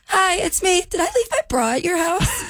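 high, raspy, up-all-night voice; hoarse party voice. Real, not acted. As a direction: sound like you partied all night. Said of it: "sound like a girl who's been out all night partying".

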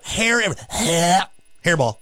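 cat coughing up a hairball; hairball hacking. Retold or imitated. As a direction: hack it out like a cat. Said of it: "pretty good impression of a cat with a hairball".

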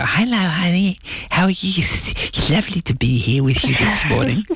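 high-pitched lisping Welsh greeting to start; lispy Welsh voice. Shown as a demonstration. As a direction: put on a lispy Welsh voice for the at-home hello. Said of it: "lispy Welsh voice".

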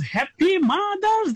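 high, slowed shout of "happy Mother's Day"; shouted greeting. Real, not acted. Caller shouting Mother's Day wishes to all mothers on air. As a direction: belt the wish out to all the mothers.

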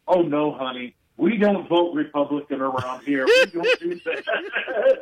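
a mother's mild scolding breaking into laughter; mother corrects her son while the teller laughs; mom's gentle no. Retold or imitated. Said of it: "She goes".

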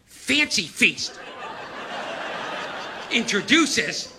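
lightly imitated ad voice; commercial announcer. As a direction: read it like a mock cat-food commercial. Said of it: "I heard this commercial the other day".

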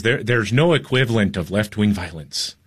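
a barely-there Irish accent, mocking a reporter; half-hearted Irish lilt; bad Irish accent. Host mocking the Irish CNN reporter, weak Irish accent. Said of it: "That's a terrible accent".

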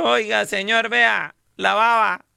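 high, slow mock lament; mock widow. Widow telling the drunk her husband did laundry, mock lament. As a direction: draw out the praise, hammed-up.

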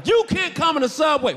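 lightly hammed-up guard laying down the law; stern guard. Security guard banning him from the Subway, mock stern. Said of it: "he thinks I'm getting tough with him".

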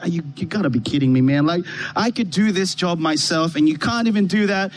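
low, fast grumbling complaint; grumbling attitude. Retold or imitated. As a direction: mutter it low and quick, entitled. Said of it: "I'm grumbling".

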